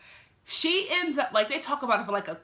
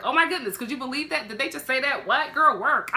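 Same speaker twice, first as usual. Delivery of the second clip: sassy gushing; 4 semitones higher, 4 dB louder than usual. Retold or imitated. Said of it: "It's like".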